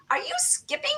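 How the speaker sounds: mock neighbor surprised. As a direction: ask it like you can't believe it. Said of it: "this one neighbor goes".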